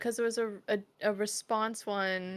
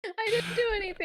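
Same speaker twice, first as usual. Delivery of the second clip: high squeaky voice; 11 semitones higher, faster than usual. Acted. High pitched character voices.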